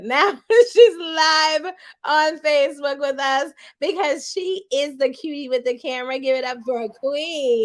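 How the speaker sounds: big laughing hype-host call; mock announcer hype, slowed; her intro voice. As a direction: shout her onto the stage like a host. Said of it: "I'm gonna try to do it in the voice that she does".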